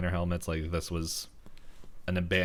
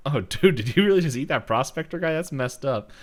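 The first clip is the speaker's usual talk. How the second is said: higher, quick imitated disbelief; lightly voiced dude, pitched up; imitated cartoon character; 6 semitones higher, 6 dB louder than usual. Character scolds the baby pterodactyl, imitated higher voice. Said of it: "so he's like".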